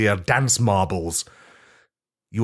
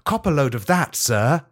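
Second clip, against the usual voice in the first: sleazy robot butler; 5 semitones higher than usual. Acted. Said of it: "thrusts his hip forwards and says".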